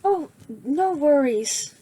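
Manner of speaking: a hint of a grinning boy; goofy Midoriya. Midoriya greeting the new boy, lightly voiced and goofy. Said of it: "Midoriya has his goofy smile".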